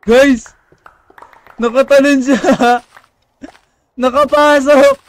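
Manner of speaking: high, loud, drawn-out alarm; alarmed shouting. Real, not acted. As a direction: cry out that danger has broken in. Monster got inside. (pasigaw na may takot)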